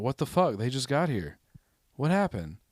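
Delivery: mock-outraged "how is this happening"; indignant disbelief. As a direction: retell it as baffled indignation. Retelling his outrage at being skipped.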